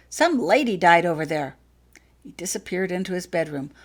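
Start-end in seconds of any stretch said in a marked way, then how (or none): 0.1-1.5 loud announcement. Acted. Vernon's excited news.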